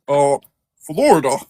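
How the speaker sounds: lightly imitated accent on "Florida"; slipping accent. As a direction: mimic the man's accent saying "Florida". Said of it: "his accent slipping a little bit".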